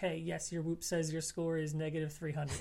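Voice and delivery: dry, flat, deadpan sarcastic delivery.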